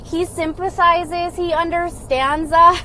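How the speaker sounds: high, slow adoring coo; mock a smitten follower cooing over him; slow, high starstruck cooing; swooning fan. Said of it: "who's like".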